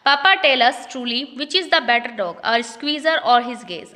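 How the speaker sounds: reading each English line slowly and carefully; slow play reading. Acted. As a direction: read it out like a play script, word by word. (धीमी, साफ़ नाटक पढ़ाई)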